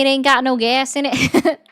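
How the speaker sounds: lightly imitated real Southern accent. Recalling the talk heard after moving, imitated Southern accent. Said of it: "Southern accent".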